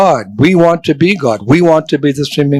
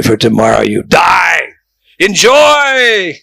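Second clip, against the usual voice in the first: mock hedonist cheer; 2 semitones higher, slower than usual. Mocking hedonist motto.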